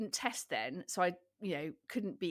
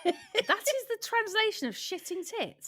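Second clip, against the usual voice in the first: laughing; 13 semitones higher than usual. Real, not acted. Laughing at the translation.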